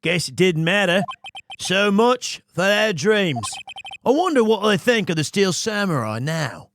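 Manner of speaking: put-on wobbly Australian-New Zealand accent; Antipodean accent. Samurai actor rueing lost dreams, in a put-on Antipodean accent. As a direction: attempt Aussie, drifting towards New Zealand. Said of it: "it's definitely some New Zealand".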